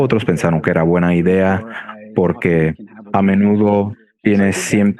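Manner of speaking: Spanish spoken with an American accent; non-native Spanish, American accent. Real, not acted. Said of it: "mi español académico no es suficientemente fluido".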